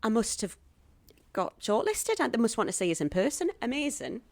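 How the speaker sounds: high, gasping delight; retold excitement. Actress seeing agent's call after self-tape, acted-out excitement. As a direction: build from surprise to giddy hope.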